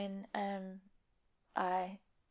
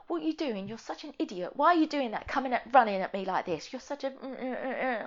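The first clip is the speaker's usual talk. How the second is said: angry yelling; 4 semitones higher, 6 dB louder than usual. Retold or imitated. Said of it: "He was like".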